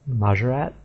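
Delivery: "Majorat" with a strong final T; correct way. Shown as a demonstration. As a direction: say "Majorat" hitting the last T hard. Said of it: "more emphasis on the T at the end".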